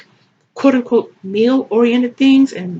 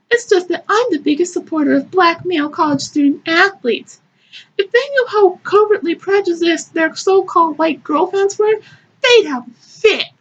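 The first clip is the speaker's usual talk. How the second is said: higher-pitched, indignant narrator read; performed story reading; 8 semitones higher than usual. Acted. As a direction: read it aloud as a put-out heroine. Reads the narrator's lines.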